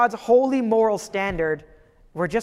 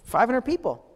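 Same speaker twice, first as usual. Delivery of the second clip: higher, quick dismissive aside; brushing it off; 6 semitones higher than usual. Retold or imitated. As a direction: wave it away and move on fast. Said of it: "he seems to just kind of brush it off".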